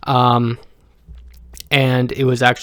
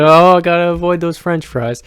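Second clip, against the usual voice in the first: mock earnest self-quote; 5 semitones higher, 4 dB louder than usual.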